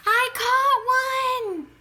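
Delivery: high, loud cry of triumph; triumphant shout. A narrator's reading. Child calling out over friends, loud and triumphant. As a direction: shout it above the other kids. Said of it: "a voice called out above the others".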